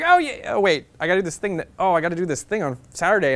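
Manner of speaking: put-on high, hurried voice of a girl backing out; flustered girl. The girl he met cancels on him, high and flustered.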